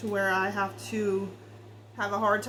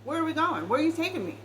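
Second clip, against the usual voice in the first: exasperated alarm; 3 semitones higher than usual. Retold or imitated. Reader voicing the querent confronting the partner, alarmed and indignant. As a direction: demand to know where this is headed. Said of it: "because you're like".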